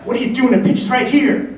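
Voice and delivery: high, insistent quizzing coach; Ted Williams. Retold or imitated. Baseball legend testing supposed pitcher, high insistent impression. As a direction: fire the question high, imitating a legend. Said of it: "he goes".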